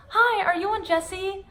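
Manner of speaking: high, slow, excited fan greeting. Retold or imitated. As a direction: gush a hello to a star. Fans greeting actress, high voice.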